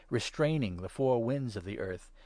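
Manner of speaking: plain reading voice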